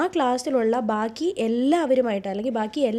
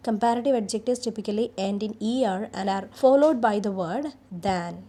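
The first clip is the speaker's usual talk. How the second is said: slow, deliberate dictation of slide text; reading the slide; much slower than usual. Acted. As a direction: read each line out slowly for the class. Reads the slide text aloud. (Slide പതുക്കെ വായിക്കുന്നു)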